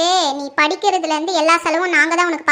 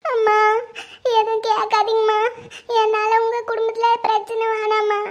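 plaintive, crying appeal; weepy plea to let it go; tearful pleading; 3 semitones higher than usual. Acted. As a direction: beg through tears. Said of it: "கண்ணை தொடைன்னு சொல்றேன்ல".

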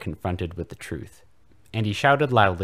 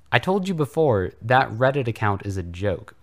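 whiny; 4 semitones higher, 5 dB louder than usual. Acted. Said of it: "Voldemort whined pathetically".

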